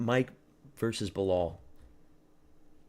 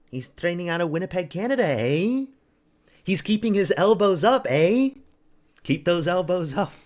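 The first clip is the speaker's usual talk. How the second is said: much higher and louder hammed-up Canadian accent, eh punched; loud mock Canadian coach; 8 semitones higher, 7 dB louder than usual. Streamer hyping the Winnipeg fighter to chat, loud mock Canadian coach voice. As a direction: yell it like a goofy Canadian cornerman.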